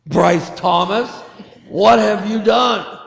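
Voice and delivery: mock scolding by full name, pitch climbing on the question; mad parent. Parent calling a misbehaving son by full name, mock mad. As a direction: scold like a parent who caught a child misbehaving. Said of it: "when you're mad at him".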